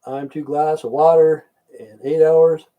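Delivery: slow drawn-out mimic of the senator candidate; lightly voiced McConaughey, slow; McConaughey impression. To viewers, he imitates McConaughey's interview slowly. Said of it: "Matthew McConaughey".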